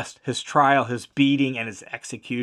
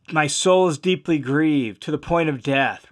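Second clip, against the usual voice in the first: grieved. Retold or imitated. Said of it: "Very distressed, troubled".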